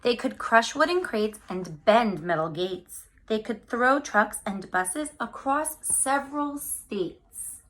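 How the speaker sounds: put-on lively picture-book read-aloud for kids; reading to children. Teacher reading a picture book to her class, lively storytime voice.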